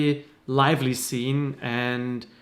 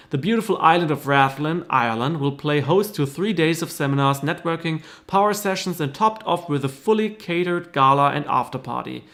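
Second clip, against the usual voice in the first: brochure read. Acted. Reads brochure ad copy aloud.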